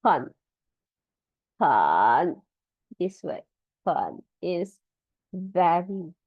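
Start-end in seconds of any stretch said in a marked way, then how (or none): 0.0-2.4 很 said singly, then drawn out in a low dip; one by one. Shown as a demonstration. Teacher taking the phrase word by word, slow isolated syllables. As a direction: isolate 很, stretching the second into a deep dip. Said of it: "Let me do it one by one like this".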